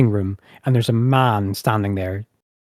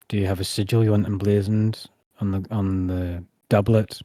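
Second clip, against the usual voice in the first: lightly voiced formal tailor; a measured, businesslike tailor, lightly played; tailor character; 3 dB quieter than usual. Tailor questions the customer.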